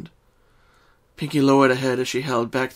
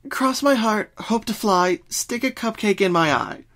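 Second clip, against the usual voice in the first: sing-song oath; 9 semitones higher than usual. Acted. Twilight recites the swear.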